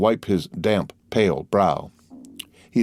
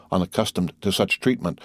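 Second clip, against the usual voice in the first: usual speaking voice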